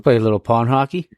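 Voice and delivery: put-on Canadian accent on pond hockey. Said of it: "the Canadian accent in there".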